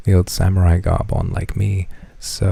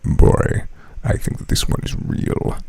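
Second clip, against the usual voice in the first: 1 Kratos voice. Retold or imitated. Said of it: "he's like".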